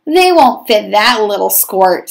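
mock the little brother with scorn; sneering. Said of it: "sneered his brothers".

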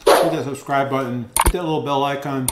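talking through a mouthful of chips; mouth full. Real, not acted. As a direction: speak around a bite, still chewing. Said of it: "talking my mouth full".

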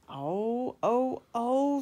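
jeering freight cars. A narrator's reading. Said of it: "said the freight cars".

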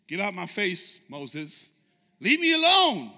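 lines rising to a high, loud outburst on Leave me alone; exasperated God telling Moses off; mock angry God. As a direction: play God losing patience. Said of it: "Say it again".

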